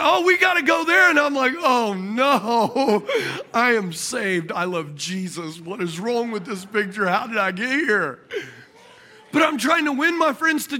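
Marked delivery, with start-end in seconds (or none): 0.0-1.1 mock drunken clamour, high and loud; loud drunk buddy. Drunk buddies pestering their designated driver, loud and obnoxious. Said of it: "they're obnoxious, loud". 1.6-8.2 hammed-up pious dismay; mock dismay. Saved driver dragged to a strip club, mock dismay.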